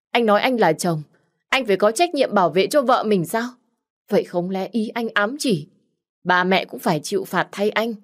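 mock his words back at him; sharp young woman arguing. Nhã Thi arguing with Hưng. (giọng cô gái cao, mỉa mai)

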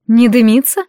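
"Не дымится?" with a rising, surprised lift on "дымится"; surprised question. Acted. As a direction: echo it back in disbelief. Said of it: "поглядела она на Балихана".

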